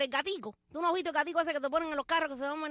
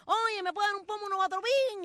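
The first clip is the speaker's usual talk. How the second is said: customer asking; 6 semitones higher, 3 dB louder than usual. Retold or imitated. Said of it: "le decían al farmacéutico".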